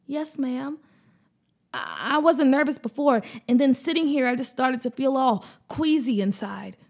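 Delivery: put-on a touch of a nervous child; hesitant boy's voice; lightly voiced little boy. Boy tells mom he feels queasy, lightly nervous.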